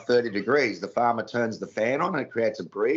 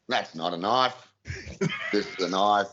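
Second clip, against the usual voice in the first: Crocodile Dundee line; 3 semitones lower than usual. Shown as a demonstration. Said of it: "You want me to say".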